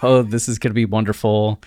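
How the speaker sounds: a hint of giddy wonder; mock excited whisper-to-self; mildly excited kid on Christmas Eve. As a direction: repeat it like a kid who can't sleep. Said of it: "like a kid Christmas Eve".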